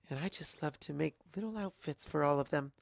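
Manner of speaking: gentle Fluttershy. Acted. Fluttershy talking about her outfits, soft and shy. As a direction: say it modestly.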